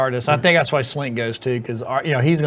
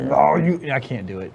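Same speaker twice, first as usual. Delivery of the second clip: talking into a cup. Real, not acted. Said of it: "Talking into a cup".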